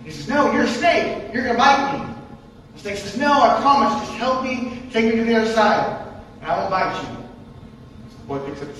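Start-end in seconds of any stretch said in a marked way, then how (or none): 0.3-2.1 higher, louder suspicious refusal; Boy Scout refusing the snake, wary and loud. Acted. 3.2-7.1 higher, louder sly promise; coaxing snake. Acted. Snake coaxes boy in story.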